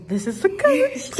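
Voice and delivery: high laughing voice. Real, not acted. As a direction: announce it while cracking up. Presents coach, laughing.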